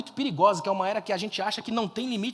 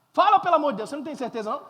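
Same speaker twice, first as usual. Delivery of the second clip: exasperated urging; 5 semitones higher, 4 dB louder, faster than usual. Real, not acted. Urges silent congregation to answer.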